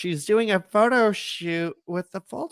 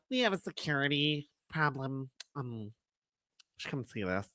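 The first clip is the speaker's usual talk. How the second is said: low, much softer secret tone; hushed; 6 semitones lower, 16 dB quieter than usual. Retold or imitated. Quoting the Bashams' secret warning, much softer. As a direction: drop to a conspiratorial hush. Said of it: "the Bashams are like".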